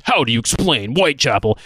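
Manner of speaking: hammed-up gung-ho marine; tough-guy meme soldier voice; Marine Todd voice. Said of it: "in Marine Todd voice".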